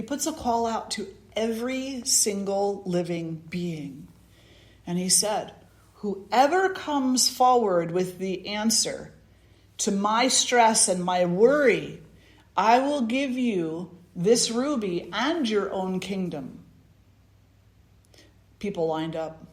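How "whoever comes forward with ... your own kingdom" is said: desperate king. Acted. King's desperate proclamation.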